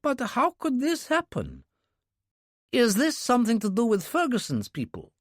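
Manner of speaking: a shaken handler who can't believe it; Yuri, alarmed. Acted. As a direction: Yuri sounding alarmed on the phone. Yuri on phone with Kurbsky.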